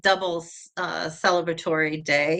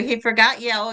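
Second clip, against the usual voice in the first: ordinary talk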